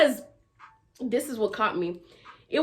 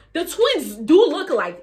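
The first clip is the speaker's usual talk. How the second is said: loud, higher, through laughter; laughing realization; 6 semitones higher, 8 dB louder than usual. Retold or imitated. Teller recalls flipping through the pictures, laughing realization. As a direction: crack up while quoting your own discovery. Gasps, then cracks up retelling.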